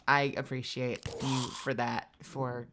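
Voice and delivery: soft, trailing off; sleepy. Real, not acted. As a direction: drift off tiredly while thanking. Sleepy fading thanks.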